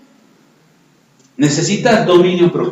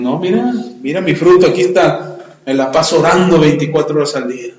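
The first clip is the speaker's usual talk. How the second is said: bragging. Acted. Boastful believer showing off.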